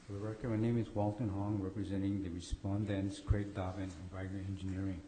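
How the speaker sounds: hoarse from a cold, losing voice. Real, not acted. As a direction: speak through a hoarse, fading voice. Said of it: "I'm kind of losing my voice, got a cold".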